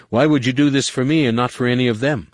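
rising desperate anger. A narrator's reading. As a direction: let anger gather behind the plea. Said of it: "desperation and anger starting to gather behind his voice".

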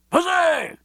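high-pitched cheers of a toasting crowd; cheering. A narrator's reading. Suite hailing Fox's toast at dinner, high cheering. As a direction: cry it out high, drawing out the cheer. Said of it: "cried the suite".

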